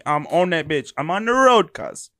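mock British gangster talk; British accent. Shown as a demonstration. Host auditioning for Top Boy, mock British accent. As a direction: play a London roadman, British accent. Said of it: "check out the British one".

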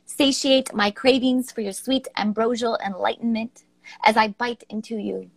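measured, declamatory poem read aloud; dramatic poem reading. Acted. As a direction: savour each phrase like a seductive recital.

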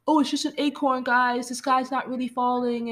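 high-pitched explaining voice; imitating Chicken Little. Chicken Little explaining to the town, high imitated voice.

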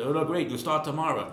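a hint of an Italian accent as you retell the boss. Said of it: "in his Italian accent".

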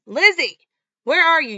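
high, loud furious calling; angry shouting. Retold or imitated. Boyfriend hunts the hiding girl, loud angry shout. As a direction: bellow her name.

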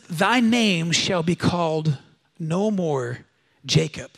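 slow, solemn declaration; scripture voice. Retold or imitated. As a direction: pronounce it like an old blessing. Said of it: "he says".

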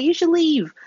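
curt dismissal. Retold or imitated. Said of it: "She's like".

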